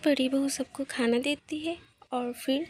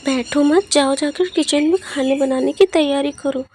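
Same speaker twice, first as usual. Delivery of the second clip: raised, commanding voice; stern order; 9 dB louder than usual. Acted. Mother-in-law orders her to work.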